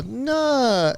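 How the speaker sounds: high-pitched drawn mock Korean accent; Korean lady doctor. Korean doctor correcting her patient, high mock Korean accent. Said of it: "she talks like that".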